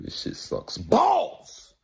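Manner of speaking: sudden squealed high-pitched slow complaint; exaggerated high squeal. Real, not acted. Fan mocking the album in a sudden high squeal. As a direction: stretch it out in a high mock wail.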